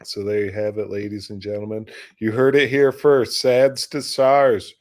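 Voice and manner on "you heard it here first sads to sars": louder, higher announcer punch; announcer sign-off. Acted. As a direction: proclaim it like an exclusive scoop, drawing out the end. Mock newscaster sign-off of story.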